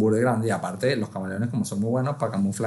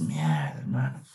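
relieved sigh; 9 semitones lower, 7 dB quieter, slower than usual. Real, not acted. Relieved gasp after ordeal.

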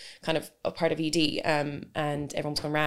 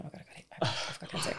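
whispered, much softer inner panic; retold dread; 10 dB quieter than usual. Patient awaiting MRI results, whispered retold dread. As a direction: whisper it like a private, dreadful thought.

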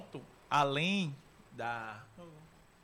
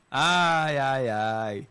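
flustered sighing; 2 semitones lower, 10 dB louder, much slower than usual. Real, not acted. Flustered, can't find question.

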